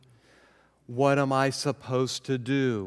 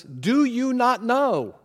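preaching scripture; 5 semitones higher, 6 dB louder than usual. Acted. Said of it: "Paul says".

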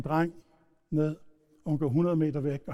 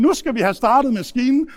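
loud, higher mock-gleeful announcement; boisterous teasing; 7 semitones higher, 8 dB louder than usual. Teenager starting the motorcycle game on his brother, boisterous. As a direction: play the rough big brother, loud and eager.

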